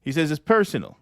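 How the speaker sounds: a hint of Trump's rambling complaint; lightly voiced Trump. Trump griping about his staff, lightly voiced Trump. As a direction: ramble on like a weary president. Host keeps Trump impression going.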